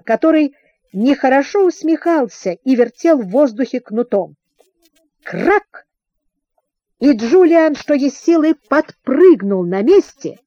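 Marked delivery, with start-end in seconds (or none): 5.2-5.9 sudden short crack, higher-pitched; spoken whip-crack sound effect; one sharp "krak" like a whip; whip crack imitation. A narrator's reading.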